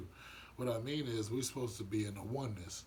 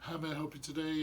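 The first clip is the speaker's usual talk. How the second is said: customer service voice; 4 semitones higher than usual. Retold or imitated. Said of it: "they wear a different shirt at work".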